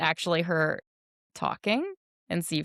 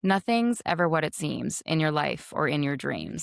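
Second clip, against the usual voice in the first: monotone; 3 semitones lower than usual. Shown as a demonstration. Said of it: "can you say the lyric again".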